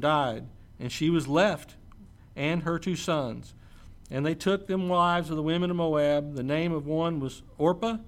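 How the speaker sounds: steady, measured Bible reading; scripture reading. Acted. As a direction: read the passage aloud to the church. Reads scripture aloud.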